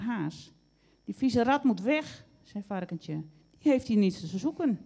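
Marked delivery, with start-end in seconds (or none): 1.0-2.3 loud, high, indignant demand; angry complaint. A narrator's reading. Piglet's angry complaint to Hare. 3.6-4.8 loud, raised, cross voice; angry complaint. A narrator's reading. Piglet's angry complaint to Hare.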